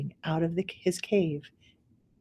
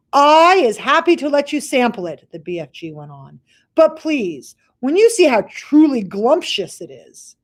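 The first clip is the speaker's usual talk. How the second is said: higher, louder coaxing giant; BFG's voice; 5 semitones higher, 5 dB louder than usual. Acted. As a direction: tempt him with the treat. BFG offers a bite.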